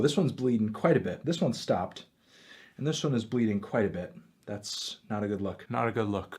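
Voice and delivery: hushed inspecting voice; quiet checking wounds. Real, not acted. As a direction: talk half to yourself.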